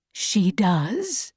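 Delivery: low, soft reassurance; comforting father. A narrator's reading. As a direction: reassure a grieving child gently. Father comforts child at coffin.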